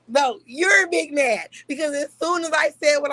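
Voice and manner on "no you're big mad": taunting. Real, not acted. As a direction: drag it out to needle him. Taunting the other person.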